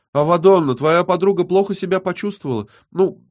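snide, playful taunt. A narrator's reading. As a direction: report it with malicious glee, pitch lifted. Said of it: "ехидно улыбнулась".

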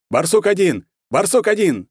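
high, loud radio call; commanding shout into a radio; colonel shouting. A narrator's reading. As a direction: yell into the radio for an answer. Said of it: "закричал полковник".

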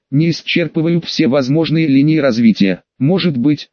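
ordinary delivery

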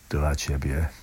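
usual speaking voice

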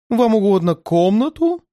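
вежливо, чуть выше; услужливый швейцар, слегка сыгранный; лёгкий голос швейцара. Acted. Швейцар встречает гостя. (вежливый швейцар, слегка выше)

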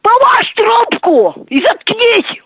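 high mocking voice. Prank call, high mocking voice.

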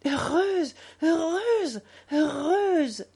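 high, joyous outpouring; graceful effusion. A narrator's reading. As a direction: gush with happiness, each repeat swelling and falling. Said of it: "répondit-elle avec une gracieuse effusion".

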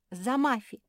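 громкий высокий выкрик «За Мафи!»; выкрикни и прыгай следом; крикнула. Acted. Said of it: "крикнула самая маленькая мопсиха". (Жози кричит, прыгая в колодец за Мафи)

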